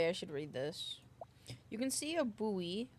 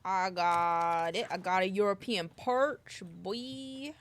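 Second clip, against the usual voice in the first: excited; 8 dB louder, slower than usual. Real, not acted. Catching a fish.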